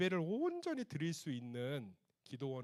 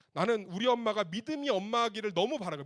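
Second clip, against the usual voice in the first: loud, high heartfelt longing; emphatic yearning; 6 semitones higher, 10 dB louder than usual. Real, not acted. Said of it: "emphatic memory". (간절하게 외치듯)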